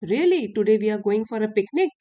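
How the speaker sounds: glad, excited "really" rising at the start; teacher demoing a happy "really". Shown as a demonstration. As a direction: say "really" like thrilled news about a picnic. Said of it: "अगर happy emotion से बोलोगे really".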